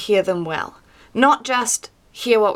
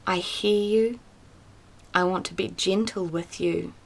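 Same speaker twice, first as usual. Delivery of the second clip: gentle, comforting. Pretend. God speaks quietly to despairing Elijah, gently reassuring. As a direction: soothe him like a hurting friend. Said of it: "comes in a way that is comforting, that is quiet, that is peaceful".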